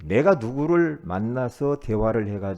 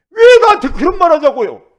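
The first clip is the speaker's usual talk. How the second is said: high, loud, indignant cry of a church grandmother; shrill-free but loud retold outburst, much higher; old woman's outcry; 17 dB louder than usual. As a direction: protest it at the top of your voice. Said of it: "할머니 성도님이".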